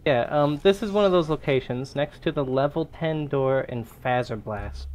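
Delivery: ordinary talk, nothing marked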